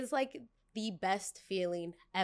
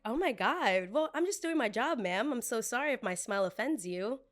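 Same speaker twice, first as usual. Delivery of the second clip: fake polite; 2 semitones higher than usual. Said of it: "give you my teeth".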